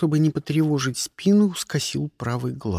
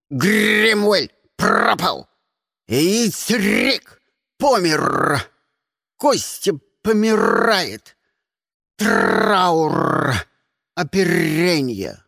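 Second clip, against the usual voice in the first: raven's wild wail; 3 semitones higher, 4 dB louder, much slower than usual. Acted. Raven bursting into the cabin, squawking hysterically. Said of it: "дурным голосом завопил".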